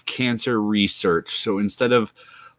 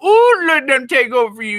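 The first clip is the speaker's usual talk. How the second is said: squealing high ooh, louder; hammed-up excitement; 6 dB louder than usual. Salesman gushing to viewer about nanobots, squealing high. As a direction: gush over it like a cartoon huckster.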